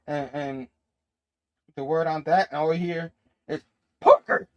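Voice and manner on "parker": sudden high, loud bellow; retold boss's yell. Comic-book boss summons his employee Parker, yelling. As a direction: yell the name across the office. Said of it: "And he yells again".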